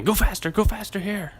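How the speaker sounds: loud, high mock road-rage yell; impatient driver. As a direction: imitate nagging the car ahead. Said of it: "for every little thing".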